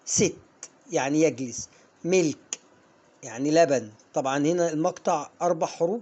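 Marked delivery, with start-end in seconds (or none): 0.0-0.4 ست said with a short i sound, like "sit"; English word sit, short i. Shown as a demonstration. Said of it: "بص كده". 2.0-2.6 ملك said with a short i, like "milk"; English milk, short i. Shown as a demonstration. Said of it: "بص كده".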